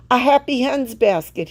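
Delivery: repeating. A narrator's reading. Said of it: "he repeated".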